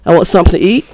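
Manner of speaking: SOMETHING said as "sump'n"; casual example, TH dropped from SOMETHING; shortened word. Shown as a demonstration. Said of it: "you're just shorting it down".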